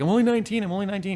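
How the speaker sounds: high, mocking imitation of a cocky nineteen-year-old; mocking young rapper. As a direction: play him up as a smug kid bragging. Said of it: "He's, like, drinking bud as he's like".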